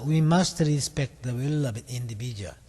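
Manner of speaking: very slow, word-by-word English; slow model reading. Shown as a demonstration. Teacher models the English sentence for students, very slowly. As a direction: spell the sentence out slowly for the class to copy. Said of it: "원어민 발음과 똑같이 이 모방을".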